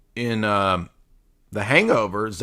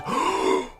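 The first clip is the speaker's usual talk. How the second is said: a breathy imitation gasp of fake shock; mocking fake gasp; 3 dB quieter than usual. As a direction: gasp in pretend outrage. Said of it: "the Gaytheist guy with his fake outrage".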